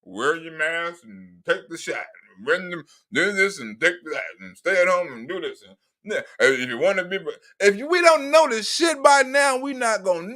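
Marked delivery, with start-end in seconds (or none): 0.0-5.6 mock lecturing Biden. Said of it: "This nigga screaming the same shit".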